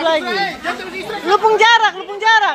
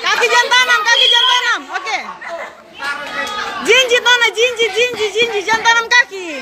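gym coach. Real, not acted. Coach calling instructions during bout.

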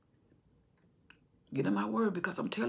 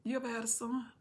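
quiet; 4 semitones higher, 9 dB quieter than usual. Acted. Repeated softer.

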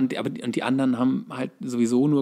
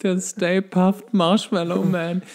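very slow and higher, drawn-out reveal; sheepish punchline; 7 semitones higher, much slower than usual. Retold or imitated. Co-host delivers the movie punchline slow and high. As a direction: stretch out the name sheepishly.

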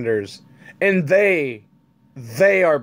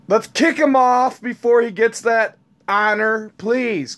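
raised ranting voice; 5 semitones higher than usual. Real, not acted. Ranting to viewers about retiring the senator, yelling. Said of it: "I'm yelling again".

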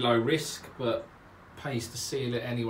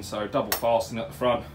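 out of breath; 3 dB louder than usual. Real, not acted. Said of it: "Excuse me, out of breath".

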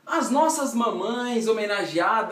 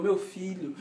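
lovingly; 2 semitones lower, 9 dB quieter than usual. Retold or imitated. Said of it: "com todo amor".

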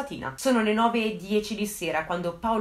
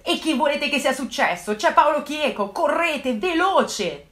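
higher, louder, desperate; frantic urging; 6 semitones higher, 5 dB louder, slower than usual. Retold or imitated. Girlfriend pressing the slow officer to hurry, higher and louder. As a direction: push them to hurry, voice raised.

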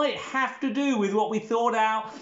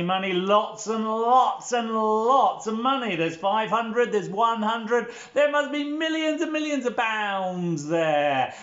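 amazed at riches; 4 semitones higher than usual. Pretend. Showing children a pile of money, playfully amazed. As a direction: marvel playfully at a huge haul.

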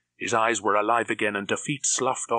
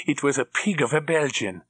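higher, odd henchman voice, gloating; sneering henchman; 6 semitones higher, 3 dB louder than usual. A narrator's reading. Krebs recalling the Belgian spy, sneering.

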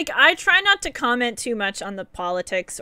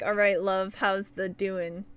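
light mock British accent, slower on the question; 4 semitones lower, 4 dB quieter, slower than usual. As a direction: tease UK chat with a half-hearted British accent. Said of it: "UK people be all like".

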